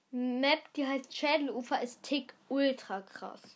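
talking while chewing an apple; words round a bite of apple; mouth full. Real, not acted. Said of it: "Ich esse grad einen Apfel".

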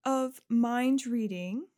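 lightly voiced, explanatory counselor; encouraging school official explaining a skill; kind school counselor. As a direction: lay out the offer politely and clearly. Game master voices Miss Patil.

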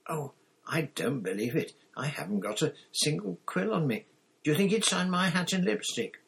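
put-on high-pitched girlish excitement; flustered fan. A narrator's reading. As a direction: fret in a high voice over meeting a star. Frantic girls want an autograph.

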